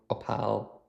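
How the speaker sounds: Opal as "uh-PAL"; another pronunciation attempt. Shown as a demonstration. YouTuber unsure of the tool's name, softly saying Opal as "uh-pal". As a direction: reduce Opal's first vowel to "uh", then "pal". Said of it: "however you wanna pronounce it".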